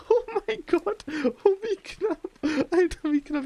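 relieved gasp. Real, not acted. Narrow escape in fight.

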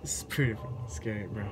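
fast tense whisper; scared whisper. Real, not acted. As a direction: whisper it, frightened. Scared in horror game.

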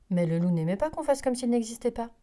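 ordinary delivery, nothing marked

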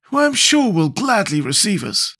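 high-pitched character voice; Scarecrow's voice. A narrator's reading. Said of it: "said the Scarecrow".

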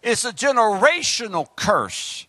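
emphatic pulpit warning; measured, punchy sermon delivery; preaching. Acted. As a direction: press the point on the congregation like a preacher. Preaches to the congregation.

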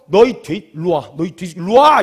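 loud, fired-up challenge; worked-up shout. Acted. David challenges the enemy after hearing insults, worked-up shout. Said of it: "막 흥분을 하기 시작했어요".

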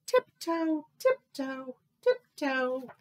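light, evenly spaced little steps; dainty story-time sneaking; playful tiptoeing. A narrator's reading. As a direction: tiptoe along with the words. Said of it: "He crept silently up".

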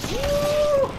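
high, loud victory whoop; sudden high cheer of triumph; excited whoop. Real, not acted. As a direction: whoop it up like you just won the fight. Celebrating a kill in game.

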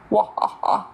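evil laugh. Pretend. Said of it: "Is that your evil laugh?".

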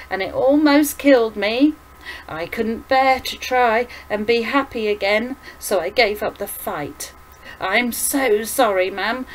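lightly voiced, pleading confession; anguished returned son. Son apologizes to his mother for staying away, earnest and upset. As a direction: confess it with mounting, remorseful emphasis.

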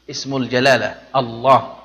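الله said with a clear h; correct Allah. Shown as a demonstration. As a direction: say الله with the proper ending. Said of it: "خطأ، الله".

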